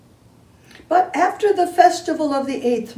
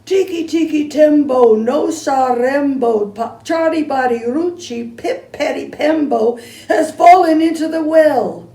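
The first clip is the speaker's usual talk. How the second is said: out of breath; 4 semitones higher, 4 dB louder than usual. Acted. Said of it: "he panted".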